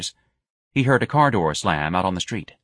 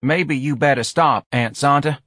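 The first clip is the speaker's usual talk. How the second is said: morose; 6 semitones higher, 4 dB louder than usual. Acted. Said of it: "Patrolman Mancuso said morosely".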